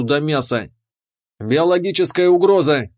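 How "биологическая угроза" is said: higher, louder warning shout; alarm siren yell. Acted. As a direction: blare it like an alarm. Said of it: "заорала сирена в шлеме".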